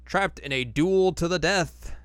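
mock trailer announcer; dramatic title read. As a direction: ham up the episode title. Reads episode title dramatically.

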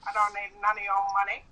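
imitated Aboriginal Australian grievance; mock Aboriginal accent. Shown as a demonstration. Girlfriend playing a wronged local on request, mock Aboriginal accent. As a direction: accuse them in a put-on Aboriginal accent. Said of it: "speak to them in Aboriginal".

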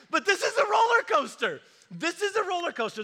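high, loud emphatic declaration. Real, not acted. Preacher to congregation, high loud emphasis. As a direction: hammer the point home.

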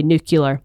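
nuclear said as "NOO-kuh-lur"; Glasgow local pronunciation. Shown as a demonstration. Songwriter showing how locals say it, Glasgow pronunciation. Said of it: "people from my area of Glasgow would always say".

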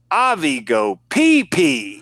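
a hint of a small child announcing proudly; little boy. Quoting the three-year-old boy at the store, slow little-kid voice. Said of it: "this is what he said".

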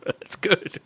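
breathy whisper, half to self. Real, not acted. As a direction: whisper it under your breath. Whispered reply after a joke.

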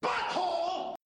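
high squeaky shouted Butthole; silly catchphrase. Pretend. Podcast host yells the running gag in a squeaky voice. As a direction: blurt it in a squeaky cartoon voice.

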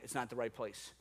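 soft, low word of caution; whispered warning. Acted. God steering preacher away from New Orleans, hushed. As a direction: say it low and hushed, a quiet inner voice. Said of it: "began to whisper a warning".

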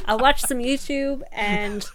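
lightly voiced old American; a hint of an American accent, playing old; slightly American elderly. Elder recalling pandemic days on the sofa, slightly American old voice. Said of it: "made myself sort of slightly American".

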